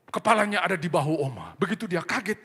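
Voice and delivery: ordinary delivery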